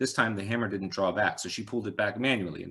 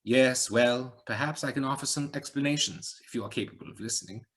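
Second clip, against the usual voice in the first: higher rhetorical musing with a hint of accent; light Eastern European accent; 5 semitones higher than usual. A narrator's reading. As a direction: lecture her on the nature of things. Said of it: "slight accent, Eastern European".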